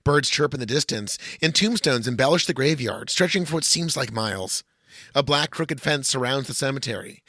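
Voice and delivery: measured scene-setting narration read from the page; lightly dramatic script read-through; screenplay reading. Acted. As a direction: read it like a script's opening description. Reads screenplay aloud.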